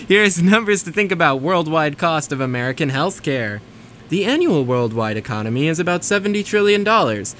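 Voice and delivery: smooth, measured PSA read; radio announcer voice. Shown as a demonstration. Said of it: "my beautiful radio voice".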